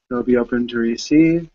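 measured meditation guide with long pauses; unhurried phrases, leaving space to breathe; guided meditation. Real, not acted. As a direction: gently lead listeners inward, phrase by phrase.

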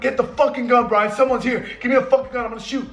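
high, mock-tough yell; acting hard. Trying to scare an intruder, acting hard. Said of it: "I'm trying to act hard".

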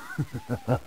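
short, soft evil chuckle; sly villain chuckle. Acted. Villain about to greet Luigi, soft sly chuckle. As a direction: chuckle darkly to yourself.

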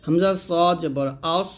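drawn-out সদ, thick "s" closing আস; thick heavy articulation. Shown as a demonstration. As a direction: spell it out slowly, ending on a heavy আস. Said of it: "মোটা করে". ("আস" মোটা করে উচ্চারণ)

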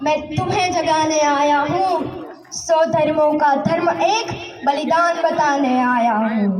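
impassioned patriotic verse declaimed; fiery poem recital. Acted. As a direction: declaim it like a rally poet.

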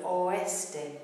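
"oeste" as o-ES-te; careful three-beat "oeste"; three syllables. Shown as a demonstration. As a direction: separate the o from the e in "oeste". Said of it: "three syllable word".

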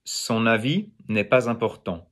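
"Son avis n'est pas important" in French, syllables linked; French pronunciation. Shown as a demonstration. Teacher showing students the French version, French pronunciation. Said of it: "in French, it is".

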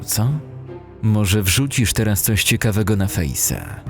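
ordinary delivery

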